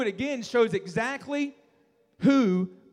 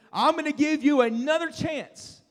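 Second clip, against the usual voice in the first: king's threat; 6 semitones higher than usual. Acted. King threatens the boys.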